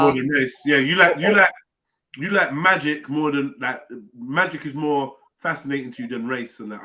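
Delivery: talking with a mouthful of steak; chewing steak. Real, not acted. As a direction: speak through a bite of food. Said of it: "I'm eating a steak and no one else is talking".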